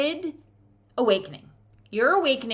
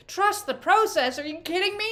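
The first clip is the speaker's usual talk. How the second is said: incredulous; 6 semitones higher than usual. Acted. Reacting to spirit's advice.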